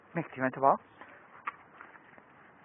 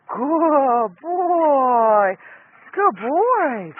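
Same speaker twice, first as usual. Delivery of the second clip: squeaky praising a dog; 4 semitones higher, 3 dB louder, much slower than usual. Real, not acted.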